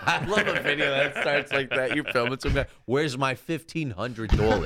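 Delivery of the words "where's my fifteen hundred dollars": mock demand. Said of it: "sound like something Joe Pesci".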